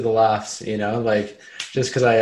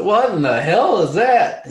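put-on old prospector; 8 semitones higher, 4 dB louder than usual. Country boy reacting at Goop.

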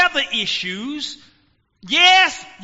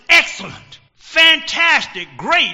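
upbeat answer; 4 semitones higher, 6 dB louder than usual. Retold or imitated. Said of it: "I'm gonna say".

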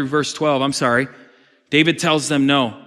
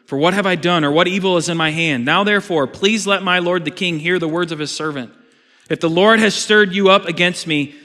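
pleading David; 3 semitones higher, 3 dB louder than usual. Acted. David pleads with Saul, read.

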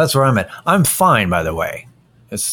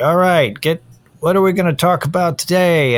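eager cohost; 9 semitones higher, 3 dB louder than usual. Retold or imitated. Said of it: "you're like".

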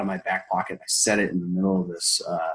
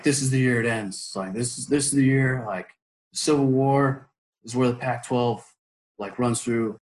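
warrior talk; 2 semitones higher than usual. Retold or imitated. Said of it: "doing my warrior talk".

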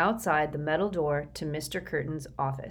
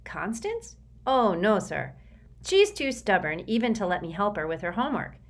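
put-on higher, anxious boy's voice; a frightened boy pleading; nervous Sticky; 3 semitones higher than usual. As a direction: recite a memorized apology, eager to please.

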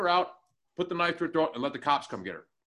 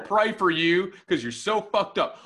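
higher Southern well-wisher, laughing at the start; mock Southern piety; 4 semitones higher, 4 dB louder than usual. Mocking co-host's call to pray, mock Southern piety. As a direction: lightly parody a pious put-down. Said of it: "that's some Southern shit".

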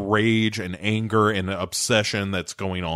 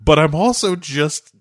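high comic distress breaking into laughter; mock upset, laughing; 4 semitones higher than usual. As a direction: play upset and crack up at the end. Retold husband's upset, breaking into laughter.

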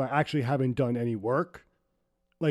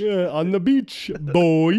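Dave Chappelle; 2 semitones higher, 4 dB louder, much slower than usual. Pretend. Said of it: "Dave Chappelle from Half Baked".

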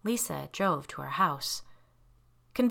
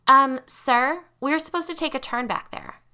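raised voice calling to the front of the car; 7 semitones higher, 7 dB louder than usual. Acted. Passenger calling through the divider to the driver, worried. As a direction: call out uneasily to an unseen driver. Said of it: "she called to the driver".

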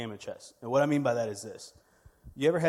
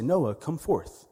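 drawn-out, slow summons, pitched up; mysterious calling voice; 5 semitones higher, 4 dB louder, much slower than usual. Retold or imitated. Boy imitating the voice he heard in his sleep, slow calling voice. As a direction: call out slowly like a voice from on high. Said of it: "I heard a voice say".

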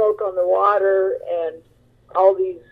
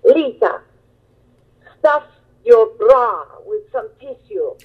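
put-on Italian accent mother; 4 semitones higher than usual. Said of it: "in her thick Italian accent".

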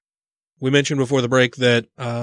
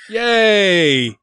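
excited cheer; 8 semitones higher, 4 dB louder than usual. Real, not acted. Cheering guest staying on.

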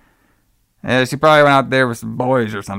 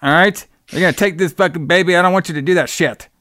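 mildly pissed-off retelling, pitched higher; retold anger; 4 semitones higher than usual. Retelling Peter's row over the baby, mock-angry. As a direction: imitate an angry boyfriend, moderately heated. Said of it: "so now Peter is pissed".

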